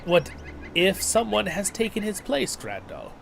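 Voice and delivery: urgent, questioning game character; NPC voice. Acted. Second NPC speaks, higher.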